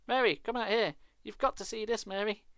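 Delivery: high, loud, eager shouting; excited calling. Acted. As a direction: yell for her to come look. Man calls excitedly to wife.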